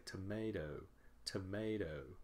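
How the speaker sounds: "tomato" as tuh-MAY-doh; reduced first vowel. Shown as a demonstration. Teacher repeating what we say, "tomato" starting with a weak tuh. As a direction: let the first syllable of "tomato" shrink to uh. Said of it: "changes from O to uh".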